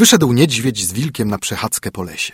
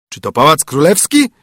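bear calling out; 4 semitones higher, 4 dB louder than usual. A narrator's reading. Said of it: "zawołał niedźwiedź".

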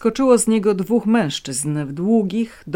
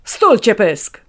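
growled order; 5 semitones higher, 10 dB louder, slower than usual. A narrator's reading. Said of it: "warknął do dziadka".

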